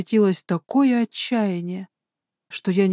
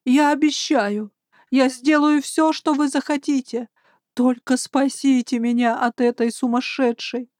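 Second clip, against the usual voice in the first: desperate pleading; 4 semitones higher than usual. Acted. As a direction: beg as if your life depends on it. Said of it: "его голос был полон отчаяния".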